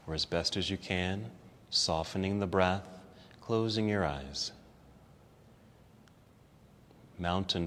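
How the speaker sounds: soft, low, calm yoga-teacher voice; guided relaxation. Real, not acted. Teacher settling students into the ground, calm and soft. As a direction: ease them softly into stillness, with long pauses.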